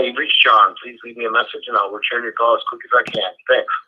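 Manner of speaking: ordinary delivery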